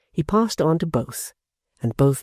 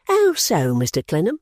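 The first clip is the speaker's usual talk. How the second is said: asking quickly; 4 semitones higher than usual. Acted. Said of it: "Pancks asked quickly".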